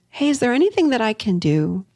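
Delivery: gentle, inviting ask; soft caring question to a partner who shut down; soft open question. Shown as a demonstration. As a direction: offer help softly, like an open hand. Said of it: "Remember these very soft, lovely, open questions".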